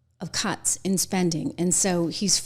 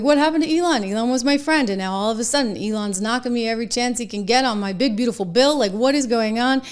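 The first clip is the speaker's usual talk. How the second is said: a mock-annoyed, higher rant; annoyed Trump; 4 semitones higher, faster than usual. Trump complaining to the media, mock annoyed and higher. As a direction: play him baffled and put out, pitched up. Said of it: "he was annoyed".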